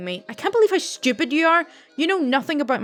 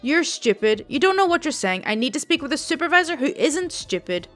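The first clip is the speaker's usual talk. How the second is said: louder, mock-furious old lady; angry customer; 3 semitones higher, 3 dB louder than usual. Rude old customer insults the call center agent, loud and angry. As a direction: snap at the agent, lightly voiced old Italian woman. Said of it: "elderly Italian lady and clearly a smoker from her voice".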